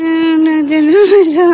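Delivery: excited no no. Real, not acted. Excited protest, celebrating.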